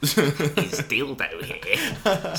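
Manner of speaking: slow drawn-out roll call; teacher taking register. Pretend. Teacher reading out the register, slow mock roll call. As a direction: call the name like a bored teacher. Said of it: "you're a teacher doing the register".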